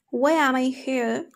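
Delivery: "am" short, linked into "I"; weak form. Shown as a demonstration. Teacher showing learners weak forms, "am" quick and reduced. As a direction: run "why am I" together. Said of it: "But in a weak form".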